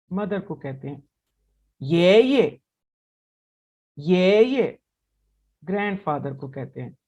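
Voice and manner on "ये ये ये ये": ये ये louder, second ये light; neutral tone demo. Shown as a demonstration. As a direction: model ये ये with a light ending. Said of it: "दोबारा से पढ़ते हैं". (ये ये, दूसरा ये हल्का)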